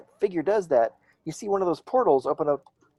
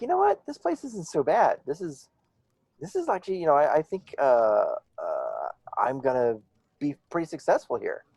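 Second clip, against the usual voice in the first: confident; 2 semitones higher than usual. Acted. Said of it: "you suddenly start to feel really confident".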